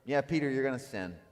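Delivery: matter-of-fact, unruffled statement; calm Jesus. Acted. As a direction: say it calmly, with no rant in it. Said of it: "He just calmly says".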